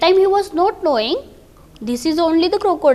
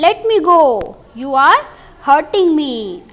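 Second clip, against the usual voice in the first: loud, hurt cry to be released; pained shout; 4 dB louder than usual. Acted. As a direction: call out in pain, louder. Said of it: "screamed Golu".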